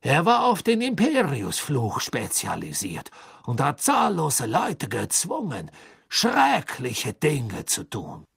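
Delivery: high, loud, slow and nervous; a desperate prisoner pleading; anxious. A narrator's reading. Karkaroff names names under pressure.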